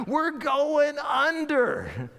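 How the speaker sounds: high, drawn-out wail of alarm; exasperated, hammed-up alarm; mock panicked cry. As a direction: cry out slowly like a sinking man. Acts out drowning disciples' alarm.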